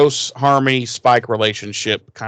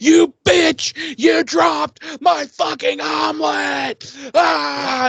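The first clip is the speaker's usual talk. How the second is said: put-on much higher, louder shrieking kid voice, slow; mock yelling kid; 13 semitones higher, 3 dB louder, much slower than usual. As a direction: scream it like a furious bratty child. Dawn yelling while stomping Joyce.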